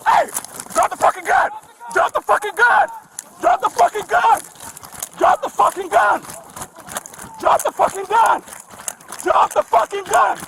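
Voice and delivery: barking the order over and over; repeated urgent police command; shouted command. Real, not acted. Officer ordering armed suspect.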